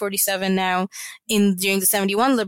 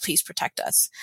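hushed, much softer begging; retold plea; 5 semitones lower, 7 dB quieter than usual. Children begging neighbors to save them, hushed plea. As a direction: plead under your breath, almost whispering. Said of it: "they begged for them to".

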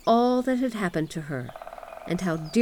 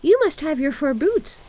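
put-on high, loud girlish instruction; little robber girl; 9 semitones higher, 5 dB louder than usual. A narrator's reading. Robber girl readies Gerda for cold, bossy. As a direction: order it in a child's high voice. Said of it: "she said".

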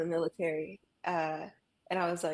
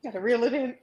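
laughing; 7 semitones higher than usual. Real, not acted. Laughing away tears.

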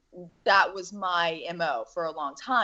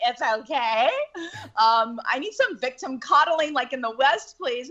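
mock pleading; 8 semitones higher than usual. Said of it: "And I'm like".

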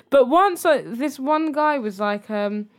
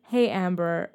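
lightly put-on American accent, lower pitch; 4 semitones lower, 4 dB quieter, slower than usual. Reading a guy's dating message to friend, American accent. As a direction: imitate an American man's opening message. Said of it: "I'm doing an American accent".

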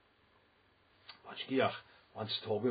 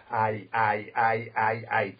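puffed-up self; 8 dB louder, slower than usual. Retold or imitated. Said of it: "blow himself up".

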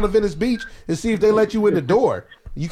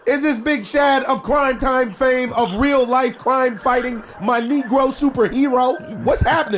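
excited on-air greeting; 4 semitones higher than usual. Real, not acted. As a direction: call out his name like a ring announcer.

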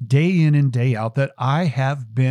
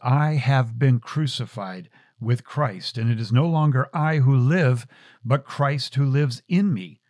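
scripture recitation. Acted. Recites scripture verse, intro of show.

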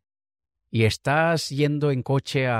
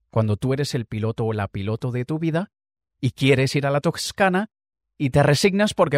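normal talking voice

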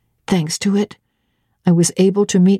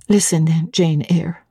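whisper; 3 semitones lower than usual. Acted. Narrator whispers stern self-address.

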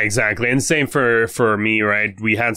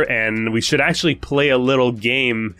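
stuffy nose from a cold; sick congested voice. Real, not acted. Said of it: "my voice sounds a little bit different".

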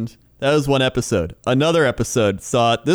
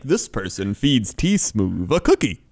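slow, lowered voice of a weird narrator; creepy narrator; 5 semitones lower than usual. Retold or imitated. Showing the way he said it, creepy narrator impression. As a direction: imitate the creepy voice-over, deliberately drawn out. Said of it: "It was the weirdest and creepy".

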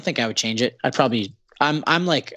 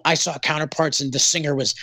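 mock offended fan; 3 semitones higher than usual. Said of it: "people would be like".

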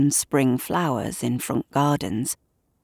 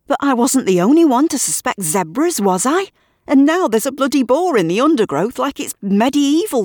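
louder and higher, indignant; heated rant; 4 semitones higher, 4 dB louder than usual. Acted. Gavin ranting at Shirley about the boar, indignant. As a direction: hammer every point home.

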